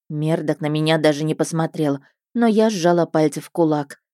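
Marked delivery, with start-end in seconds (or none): none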